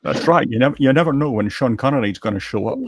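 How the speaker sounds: lightly voiced Scottish film-star impression; a hint of Connery's Scottish accent; Sean Connery. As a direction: slip slightly into a Connery impression. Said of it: "he does those Sean Connery impressions".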